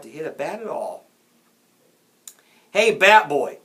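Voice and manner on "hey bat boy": put-on loud, higher kid's call. A narrator's reading. A kid calls to Jack from behind, shouting. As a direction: holler from the stands. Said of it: "a kid called from the stands".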